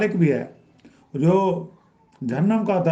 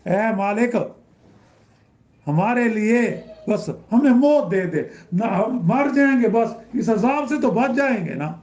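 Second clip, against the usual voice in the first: pleading damned soul; 5 semitones higher than usual. Retold or imitated. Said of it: "وہ داروغہ جہنم سے کہیں گے".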